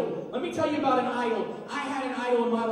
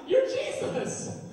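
much higher, slow laughing words; laughing realization; 14 semitones higher, much slower than usual. Retold or imitated. Thomas recognizing Jesus, high laughing amazement. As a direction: laugh it out in disbelief. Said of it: "And he's like".

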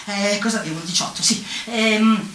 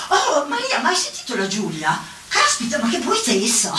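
imagined gossips. Retold or imitated. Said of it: "il primo giorno diranno".

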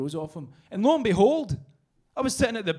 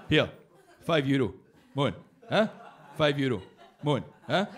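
Scottish hawker call; 3 semitones lower than usual. Retold or imitated. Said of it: "Scottish guy going up to people going".

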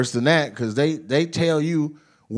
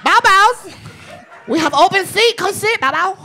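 very high, excited mock Asian dealer accent; hammed-up Asian dealer, squealed high; happy Asian dealer; 3 dB louder than usual. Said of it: "I perfected that voice".

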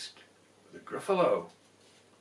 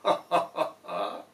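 monster laugh; 2 semitones higher than usual. Acted. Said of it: "bursting with laughter".

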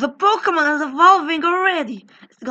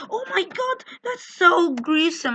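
mock horrified gasp; 5 semitones higher than usual. Player mocks teammates freaking out over the scene. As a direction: imitate the others overreacting. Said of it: "people are like".

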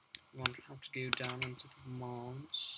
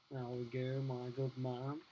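odd put-on voice; slower than usual. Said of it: "Why the fuck am I talking like this".

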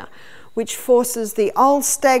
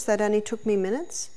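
whispered aside; 5 dB quieter than usual. Real, not acted. Quick aside within a retold call.

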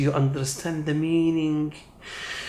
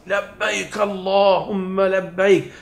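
talbiyah called out louder and higher; 5 semitones higher, faster than usual. Shown as a demonstration. Preacher showing pilgrims how to call the talbiyah, louder. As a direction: raise your voice, no shame. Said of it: "Louder voice".

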